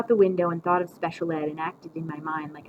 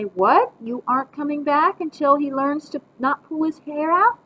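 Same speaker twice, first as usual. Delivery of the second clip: lightly acted phone shock, raised voice; pretend phone call; 8 semitones higher, 5 dB louder than usual. A narrator's reading. Grandma faking Mom's ultimatum on the phone, play-acting. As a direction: repeat the imaginary caller's threat aloud. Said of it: "pick up the phone again and say".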